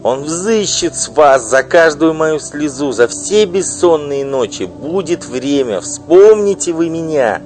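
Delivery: loud, high, bitter tirade; furious wife. Acted. Wife denouncing her husband's mistress, furious loud outburst. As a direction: spit out the insults at her rival. Wife threatens with God's judgement.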